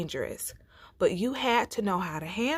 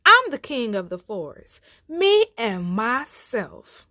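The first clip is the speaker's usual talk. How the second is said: boastful lion; 3 semitones higher, 6 dB louder than usual. Acted. Lion boasting to bear and rabbit.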